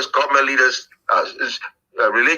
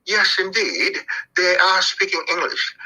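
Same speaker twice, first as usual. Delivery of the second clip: put-on British accent; 5 semitones higher than usual. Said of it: "British accent I could have".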